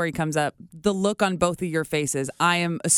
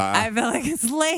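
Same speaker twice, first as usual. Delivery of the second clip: The speaker's own delivery; 6 semitones higher than usual. Acted. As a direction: stretch out lazy. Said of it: "That's exactly how I say it".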